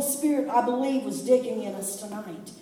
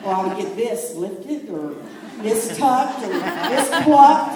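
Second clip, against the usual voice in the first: laughing mock vanity; 3 semitones lower, 4 dB louder than usual. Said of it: "We go".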